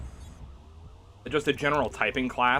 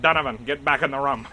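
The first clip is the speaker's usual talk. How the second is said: mock yell; 5 dB louder than usual. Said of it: "she's like, just yelled at him".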